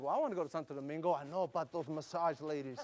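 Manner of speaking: mock husband. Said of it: "if your husband's like".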